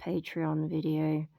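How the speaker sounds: speech thickened by a dental retainer; talking with retainer in. Real, not acted. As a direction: talk around a retainer. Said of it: "I'm talking with my, uh, retainer in".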